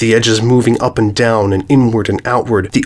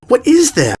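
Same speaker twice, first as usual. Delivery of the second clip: high alarmed question; 14 semitones higher than usual. Acted. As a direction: press the question urgently. Filly points, alarmed.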